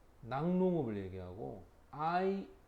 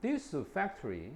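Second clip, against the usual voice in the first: slow reading; 5 semitones higher, much slower than usual. Shown as a demonstration. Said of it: "slow example reading".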